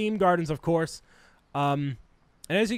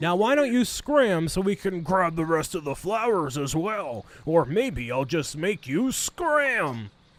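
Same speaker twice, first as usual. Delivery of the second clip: mumbling as if mouth full of marbles. Pub piano player taunting rivals to scram, mouthful-of-marbles voice. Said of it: "He sounds like he's got like a mouthful of marbles in his mouth".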